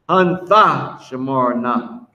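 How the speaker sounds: slow "Hun Thashamarna", the Tha distinct; pronunciation demo. Shown as a demonstration. Teacher correcting what a student put up, slow "Hun Thashamarna". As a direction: spell out "Hun Thashamarna" by ear, slowly. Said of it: "You gotta put Thashamarna".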